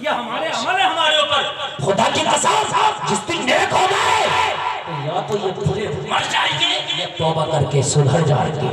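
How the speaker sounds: loud, high impassioned preaching; preaching at full force. Acted. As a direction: drive the point home to the crowd. Sermon climax again.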